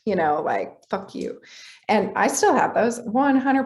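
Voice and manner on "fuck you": softer, half-whispered mock curse; mock anger under the breath. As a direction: toss off a pretend curse, barely voiced. Voicing automatic gut anger.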